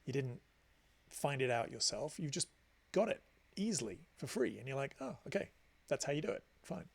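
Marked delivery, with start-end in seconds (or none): 5.0-6.9 mildly underwhelmed, imitating a listener; mock unimpressed acceptance. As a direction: act out a shrugging, unexcited "oh, fine". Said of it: "it doesn't fill you with excitement".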